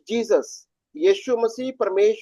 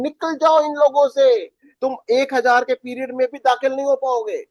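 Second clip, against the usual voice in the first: raised, urgent command to leave; the Lord commanding; 4 semitones higher than usual. Retold or imitated. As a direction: call out the warning as the voice from heaven. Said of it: "चौथी आयत के अंदर कहता है". (प्रभु की ऊँची, तत्काल चेतावनी)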